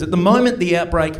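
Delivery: slow, measured newsreader imitation; news lady. News lady announces the outbreak's three main groups, slow newsreader delivery. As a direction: read it out like a bulletin, with deliberate pauses. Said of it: "the news lady said this about it".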